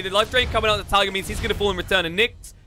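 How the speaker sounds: lively esports commentary; play-by-play. Acted. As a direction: call the fight as it unfolds. Casts live play-by-play.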